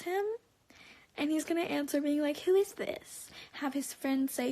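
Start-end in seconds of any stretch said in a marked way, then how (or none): 2.4-3.3 higher-pitched incredulous mimicry; exaggerated mock-clueless question; mocking imitation. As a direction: throw his question back high and mocking. Incredulous mimicry of his answer.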